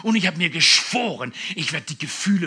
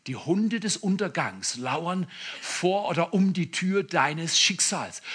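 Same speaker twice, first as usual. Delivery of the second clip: slow, darkly intoned warning; ominous quoted voice; 4 dB quieter, slower than usual. Retold or imitated. Preacher imagines hearing a threat at the door, slow and ominous. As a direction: intone the threat slowly like a doom voice. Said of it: "plötzlich höre ich Folgendes".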